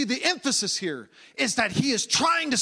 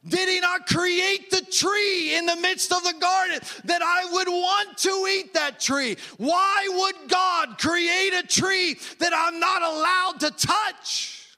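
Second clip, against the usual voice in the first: tempted Eve; 4 semitones higher than usual. Retold or imitated. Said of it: "He is trying to get her to say".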